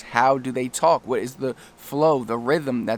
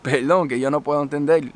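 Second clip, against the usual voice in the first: re-enacted confusion in Spanish; baffled reaction; 3 semitones higher than usual. Visitor in Madrid to a local, baffled and apologetic. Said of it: "and I would say".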